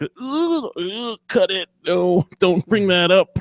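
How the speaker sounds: high, flustered hushing; mock hushing Jon. Jon hushes Davos before he spills it, flustered and high. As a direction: wave him off in a panicked high voice.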